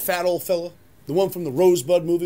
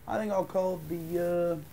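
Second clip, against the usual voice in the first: ordinary talk, nothing marked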